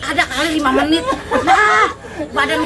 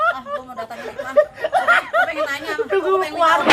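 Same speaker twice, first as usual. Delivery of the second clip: whiny begging; 8 semitones higher than usual. Acted. Begs for medicine, feverish and shaking.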